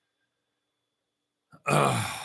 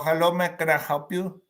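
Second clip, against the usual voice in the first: lightly voiced receptionist answering the phone; bored front-desk greeting on the phone; doctor's office receptionist. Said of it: "Any doctor's office you call".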